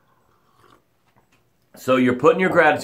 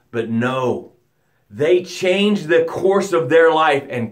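sincere gratitude demo; 3 semitones lower than usual. Shown as a demonstration. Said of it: "The way it sounds is something like this".

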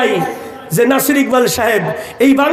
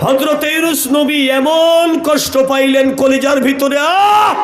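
anguished lament; 4 semitones higher, slower than usual. Acted. Preacher dramatizes the prophet's deep hurt.

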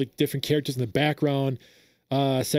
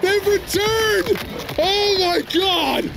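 ecstatic fan yelling; slower than usual. Real, not acted. Fan hears Animalities are back and yells with joy. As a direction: lose it with joy as the feature returns. Fan reacting live to trailer.

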